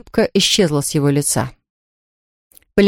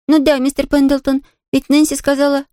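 put-on higher, bright girl's voice, nodding happily; eager little girl; 7 semitones higher than usual. A narrator's reading. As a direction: play a delighted young girl. Pollyanna answers.

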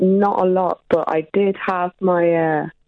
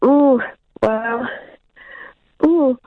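flustered surprise; 9 semitones higher than usual. Real, not acted. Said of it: "Are you yawning?".

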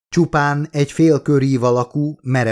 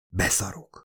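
hushed, much softer swear under the breath; whispered; 4 semitones lower, 9 dB quieter than usual. A narrator's reading. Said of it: "suttogta Ravelra tekintve". (halk, suttogó káromkodás)

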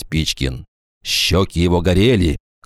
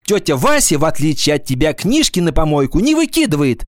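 rebuking; 8 semitones higher than usual. A narrator's reading. Class leader rebukes the girl.

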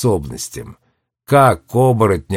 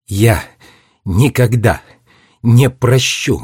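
each word set apart with pauses; Я, никогда, не прощу, word by word; spaced out; slower than usual. Acted. Girl refusing the traitor, words spaced apart. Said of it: "раздельно сказала Дженни".

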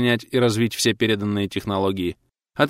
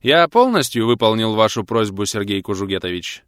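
perky and ringing; 4 dB louder than usual. Acted. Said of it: "задорно звонко спросил".

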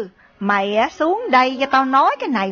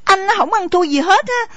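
higher mock of "không ăn thua gì hết", rising at the end; mocking his tone; 5 semitones higher than usual. Wife mocking her husband's swagger, higher and sneering. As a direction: throw his own words back at him, sneering. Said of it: "anh nói cái giọng đó nghe bảnh ra".

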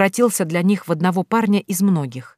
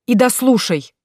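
growled demand; 6 semitones higher, 3 dB louder than usual. Acted. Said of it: "рыкнул вдруг Сайрон".

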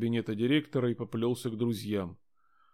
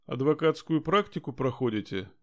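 sarcastic; 3 semitones higher than usual. Acted. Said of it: "съязвила инспектор".

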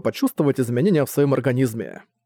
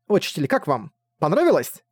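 hopeful; 3 semitones higher than usual. Acted. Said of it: "с надеждой спросила".

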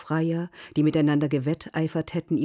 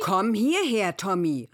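commanding; 3 semitones higher than usual. A narrator's reading. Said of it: "rief seine Schwester gebieterisch".

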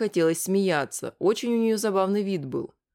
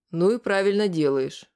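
firm; 4 dB louder than usual. Acted. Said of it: "твёрдо сказал Вадим".

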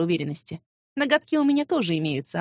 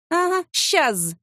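mocking refusal; 7 semitones higher, much slower than usual.

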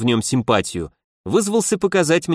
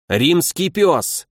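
shouted; 4 semitones higher, much slower than usual. Acted. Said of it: "вскричал он".

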